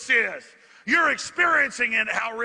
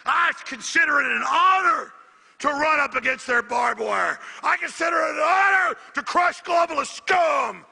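defiant shout; 4 semitones higher than usual. Real, not acted.

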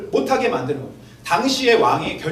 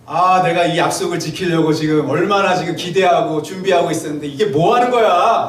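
mock anger; 7 dB louder than usual. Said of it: "겉으로는 지금 화를 내는".

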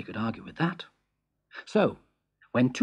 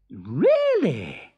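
a touch of amazed delight; surprised cry; 4 semitones higher, 3 dB louder than usual. Acted. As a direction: gasp it out, impressed. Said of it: "cried the Emperor".

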